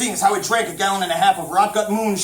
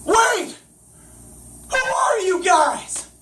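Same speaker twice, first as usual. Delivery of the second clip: bewildered call; 10 semitones higher, much slower than usual. Acted. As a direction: shout up in bewilderment. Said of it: "called up in utter bewilderment".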